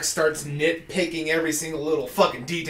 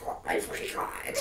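laughing; 5 dB quieter than usual. Retold or imitated. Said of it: "Ajax is behind Bud and fucking losing it".

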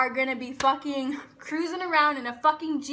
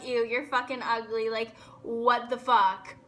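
mocking mean girl; 4 semitones lower than usual. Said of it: "someone being like".

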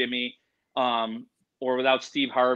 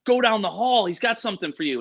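higher-pitched retold hype; amped up; 5 semitones higher than usual. Show staff sending him down the hall, mildly amped up. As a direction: lightly play an eager crew member. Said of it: "amped up, and they're like".

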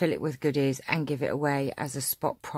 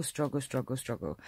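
fading weary repeat; 6 dB quieter than usual. Pretend. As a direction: let each one fade out in mock despair. Mock exasperation over old struggle.

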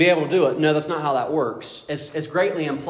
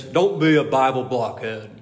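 put-on slow, booming old biker preacher; lightly imitated big, booming voice; Mark McGahee; 3 semitones lower, 4 dB louder than usual. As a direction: boom it out slowly in imitation. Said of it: "He booms".

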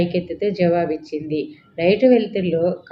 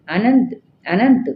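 louder, higher frightened call; a raised cry for Ananth from a nightmare; 4 semitones higher, 4 dB louder than usual. A narrator's reading. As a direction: call the name out loud in fear. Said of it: "పెద్దగా కేక పెట్టింది".

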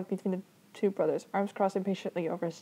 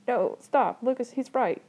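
higher, urgent plea; mild pleading; 5 semitones higher, 5 dB louder, slower than usual. A narrator's reading. Little brother begging his older brother to stop, pleading. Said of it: "Emil pleaded".

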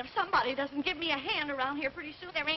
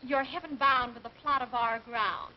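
put-on quoting old slogan; 2 semitones lower, slower than usual. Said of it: "the old one".

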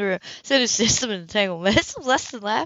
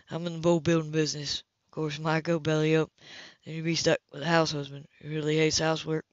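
calm assured man; 4 semitones lower, 5 dB quieter than usual. Acted. Man character voice.

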